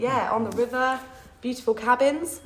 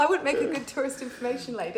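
laughing; 2 semitones higher, faster than usual. Real, not acted. Still laughing at herself.

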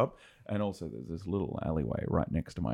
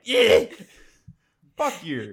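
loud high mocking shout of the kids; mock yell; 8 semitones higher, 9 dB louder, slower than usual. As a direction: yell it back at the old lady, hammed up. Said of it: "And they're like".

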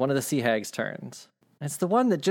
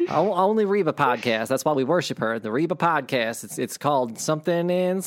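sea hag lightly imitating a country star; chatty hag in an approximate singer's accent; a hint of the country singer, played as a hag. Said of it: "this is close enough to Reba".

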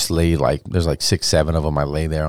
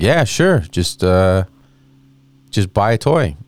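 put-on eager kid; 2 semitones higher, 3 dB louder than usual. Kid bargaining with reporter.

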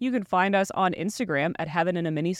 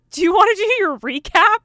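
chirpy app voice; 11 semitones higher, 8 dB louder than usual. Retold or imitated. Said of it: "card was like".

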